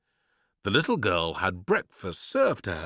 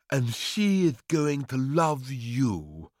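slow, slightly higher fond father voice; Papa doting; 5 semitones higher, slower than usual. Acted. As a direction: say it fondly and slowly. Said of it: "replied Papa".

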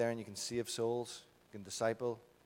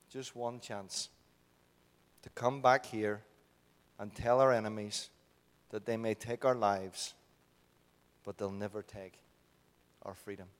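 slow, measured speech, easing down at the end; famous film battle speech; 4 dB louder, slower than usual. Acted. Preacher reciting Braveheart to the congregation, slow solemn battle speech. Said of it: "it's the famous speech".

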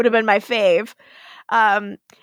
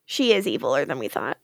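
laughing; 9 semitones lower, 6 dB quieter, faster than usual. Real, not acted. Joking aside with laughter.

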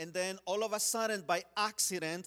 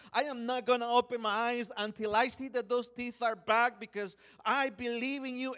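higher-pitched, earnest retold plea to God; pleading prayer; 4 semitones higher than usual. Child praying to God for his brother's teeth, pleading. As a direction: re-enact a desperate prayer.

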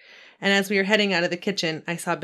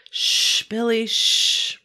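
gently; 4 semitones higher, 5 dB louder, much slower than usual. Acted. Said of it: "Mama said gently".

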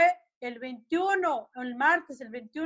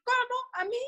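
higher-pitched startled "how?"; incredulous, jumping up in pitch; retold shocked question; 9 semitones higher than usual. Mother retelling her shock at daughter's warning, incredulous.

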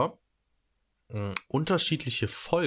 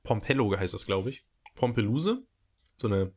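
eating while talking. Real, not acted. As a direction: mouth partly full. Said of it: "Ich esse grad so ein bisschen".

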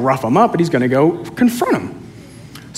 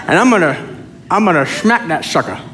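slurred mock New Orleans accent; badly faked New Orleans preacher, a bit like a famous singer; Jesse Duplantis; 2 semitones higher than usual. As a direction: imitate a thick New Orleans accent, slushy s sounds. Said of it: "in Jesse Duplantis' accent".

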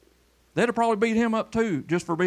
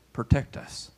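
whispered prayer; 4 semitones lower, 4 dB quieter, slower than usual. Real, not acted. Prayer after warning of doom.

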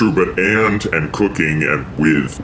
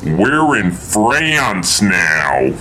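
very slow, drawn-out fake French accent; mock French; much slower than usual. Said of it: "translate it for Rosario".

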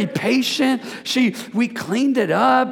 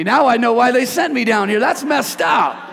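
playful mock outrage; mock indignation; 4 dB louder than usual. Real, not acted. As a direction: act offended for a laugh. Joking realization.

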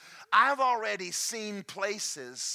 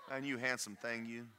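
mirror self-talk. Shown as a demonstration. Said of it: "talk to yourself".

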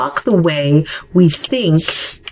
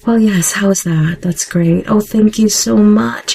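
a slightly higher, put-on sweet professional voice; a touch of an eager people-pleaser, a bit higher; fake polite voice; 4 semitones higher than usual. Shown as a demonstration. Host demos the fake voice entrepreneurs put on, a bit higher. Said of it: "put on this fake voice".

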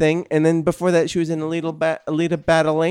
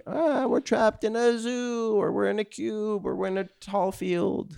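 put-on Canadian accent; 6 semitones higher, 7 dB quieter than usual. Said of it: "That's your Canadian accent?".

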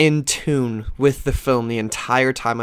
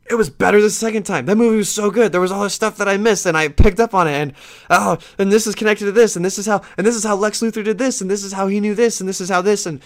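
gushing; 7 semitones higher than usual. Real, not acted. Gushing about rewatching the movie.

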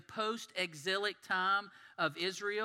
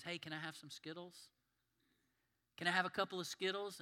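gentle asking. Retold or imitated. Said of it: "our loving God comes to all of us and says".

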